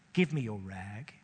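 low, gentle offer; gently. A narrator's reading. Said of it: "he said gently".

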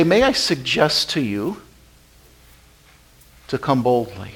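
soft, timid, asking permission; polite suggestion. Retold or imitated. God pictured gently suggesting, soft and timid. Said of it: "He doesn't say".

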